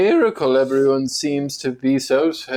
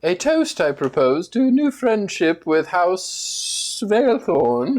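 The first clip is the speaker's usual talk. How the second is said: grand toast. Acted. Toast by noble.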